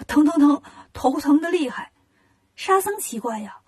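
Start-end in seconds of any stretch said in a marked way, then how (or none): 0.1-1.9 mildly acted aching moan; groaning in pain. Monkey King complains to Bajie about his head, groaning. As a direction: moan over a sore head. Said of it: "一边哼哼一边说".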